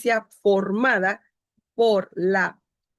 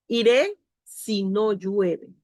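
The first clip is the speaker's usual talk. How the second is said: slow example; slower than usual. Shown as a demonstration. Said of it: "Por ejemplo".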